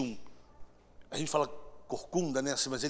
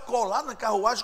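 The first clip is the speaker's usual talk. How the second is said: higher, questioning echo of an order; puzzled question; 4 semitones higher than usual. Acted. Felipe questions God's order, puzzled. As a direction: repeat it back in puzzlement.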